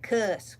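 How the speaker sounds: "cuss" said without the r of curse; Texan "cuss" for curse. Shown as a demonstration. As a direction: say "cuss", short vowel and no r. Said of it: "or as we call it".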